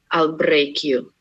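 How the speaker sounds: low put-on Russian spy threat; Russian accent. Shown as a demonstration. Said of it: "I have one phrase that always works".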